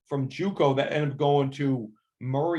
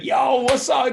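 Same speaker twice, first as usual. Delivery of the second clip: loud, higher hype shout; excited greeting; 10 semitones higher, 7 dB louder, slower than usual. Retold or imitated. Player spots the coach at camp, loud excited greeting. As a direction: greet your old coach loudly like a long-lost friend. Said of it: "and he was like".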